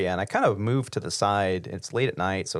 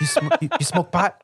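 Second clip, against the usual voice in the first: higher, louder, pushing the question; insistent stoner guy; 9 semitones higher, 5 dB louder than usual. Retold or imitated. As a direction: press him harder on it. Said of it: "He goes".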